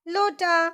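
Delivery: लोटा said whole and clear; careful model word. Shown as a demonstration. Teacher models लोटा for the class to repeat. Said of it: "अब हम इस शब्द का उच्चारण सीखें।".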